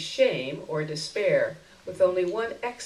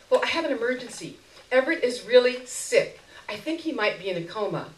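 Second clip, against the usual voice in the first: fast, higher, worried voice; strained, anxious; 5 semitones higher than usual. Acted. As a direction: rush it out in a tight, worried voice. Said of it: "Her voice was more strained than normal".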